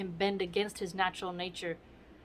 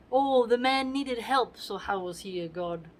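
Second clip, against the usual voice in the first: mocking Caesar. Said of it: "how he's mocking Caesar to Brutus".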